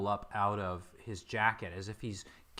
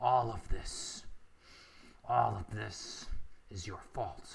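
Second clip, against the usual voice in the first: voice of someone dying. Voicing a thief torn apart by a troll: dying thief voice. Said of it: "the dying voice of a thief".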